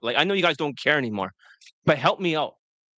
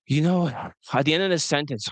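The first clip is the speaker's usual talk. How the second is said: deflated demo, sighing at sentence end; depressed sigh; 3 semitones lower than usual. Shown as a demonstration. Coach shows how men end sentences, with a depressed sigh. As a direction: let the phrase sag out into a sigh. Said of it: "that depressed sigh".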